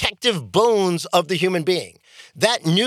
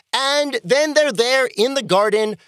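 usual speaking voice

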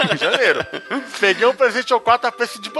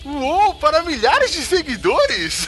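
infomercial voice; 4 semitones higher, slower than usual. Pretend. Mock infomercial skit.

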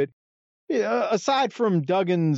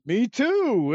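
deadpan Reeser; 9 semitones higher than usual. Retold or imitated. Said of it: "Reeser says".

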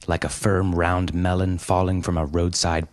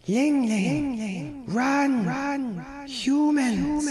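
very high, urgent creature voice; alarmed little panda; much slower than usual. A narrator's reading. Small panda warning Ling Ling to run, very high and urgent. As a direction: squeal a warning to flee.

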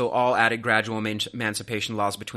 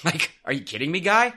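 incredulous; 6 semitones higher, 4 dB louder than usual. Real, not acted. Incredulous jab.

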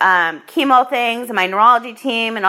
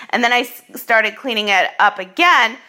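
talking through hiccups. Real, not acted. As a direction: speak with the hiccups. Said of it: "I have the hiccups".

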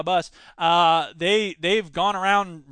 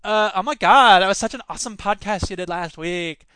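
a listener gushing over the show, hammed up; mock fan voice, gushing; 4 dB louder than usual. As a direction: play an eager fan raving. Mock fan praising the podcast.

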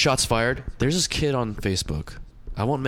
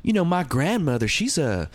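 higher-pitched imitation of a coworker; retold coworker; 4 semitones higher than usual. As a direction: voice the coworker's proud claim, lightly put on. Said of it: "But he says to me".

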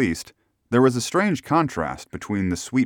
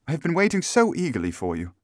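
relieved client greeting her helper, high voice; eager cry; 10 semitones higher, faster than usual. A narrator's reading. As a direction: cry out in eager welcome, pitched well up. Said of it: "she cried".

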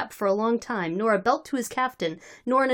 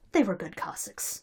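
thoughtful; 3 semitones lower, 8 dB quieter than usual. A narrator's reading. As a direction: say it softly, lost in thought. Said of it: "said thoughtfully".

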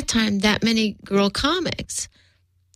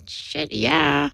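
eager yes; 6 semitones higher than usual. Retold or imitated.

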